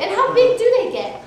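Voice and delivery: high, loud question broken by laughter; laughing question. Retold or imitated. Asking her friends about snowflakes while laughing.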